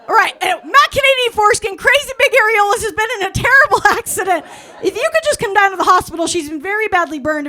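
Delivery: high and loud, laughing through words. Real, not acted. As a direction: try to get it out while cracking up.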